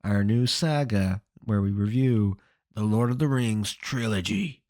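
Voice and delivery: slow, drawn-out show intro; a hint of mock-grand announcer; put-on presenter voice. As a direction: announce it in a lightly put-on voice, stretching the words. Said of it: "Don't know why I'm doing this voice".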